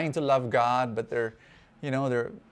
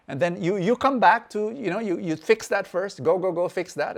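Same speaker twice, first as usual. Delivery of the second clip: higher, insistent mock instruction; pretend dismissive response; 6 semitones higher, 4 dB louder than usual. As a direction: send her away, acting the judgmental pastor. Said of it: "What if I responded in this way".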